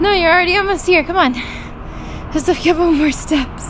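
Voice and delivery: high, fast encouraging cheer. Real, not acted. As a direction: urge her up the last steps. Cheering friend up stairs.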